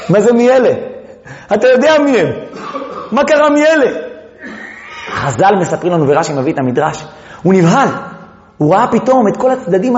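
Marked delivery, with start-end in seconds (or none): 0.1-3.9 1 incredulous laughing question. Real, not acted.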